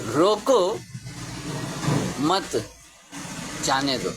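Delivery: "रोको", "मत", "जाने दो" each set apart by long pauses; rising "रोको", pause, "मत", pause, falling "जाने दो"; word-by-word pauses. Shown as a demonstration. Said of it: "इस वाक्य को दो तरीके से बोलते हैं".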